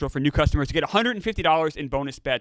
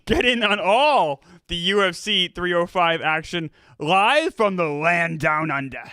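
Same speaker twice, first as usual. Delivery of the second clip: put-on Australian accent; 2 semitones higher than usual. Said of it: "do an Australian accent".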